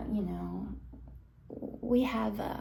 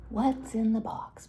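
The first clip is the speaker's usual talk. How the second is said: louder, insistent mock question; insistent demand; 5 dB louder than usual. Friends teasing Brad about his takeaway box, insistent demand. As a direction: press for the answer, voice raised.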